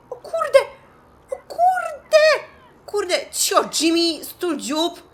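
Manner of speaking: high, loud panicked shout; panicked yelling. Real, not acted. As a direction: scream in panic at him.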